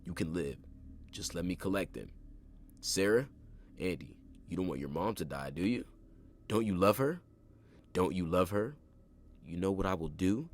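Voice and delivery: loud, wheedling and rising; killer's false calm. A narrator's reading. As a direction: coax them like a predator. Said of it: "His voice was not so calm".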